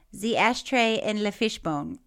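light mock French accent. Reader repeating friend's mangled store name, light French accent. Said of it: "use French accent for this".

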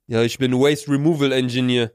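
show-off guy. Acted. Acting out boastful guy.

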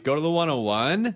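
rising like a question; every phrase ends going up; uptalk. Shown as a demonstration. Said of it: "So everything sounds like a question".

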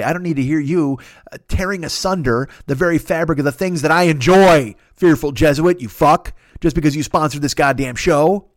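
a comic rant building to loud outrage; mock furious rant. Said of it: "I'm furious".

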